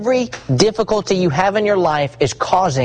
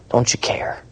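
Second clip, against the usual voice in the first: whispered plea; 4 dB quieter than usual. Acted. Apostles' plea in storm.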